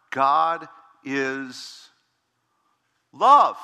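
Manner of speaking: God is LOVE, love rising loud; preacher's shout; proclaimed. Real, not acted. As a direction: boom out the last word. Preacher proclaims core truth.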